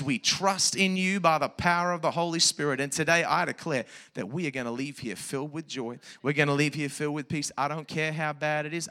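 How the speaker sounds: earnest spoken prayer to God. Real, not acted. Pastor praying over the church, earnest prayer. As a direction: lead the church in prayer, declaring.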